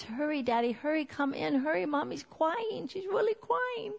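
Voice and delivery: put-on high, urgent small-child voice, climbing in pitch; little boy's voice. Little son calls Daddy in to crying Mommy, urgent child voice. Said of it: "said in his little voice".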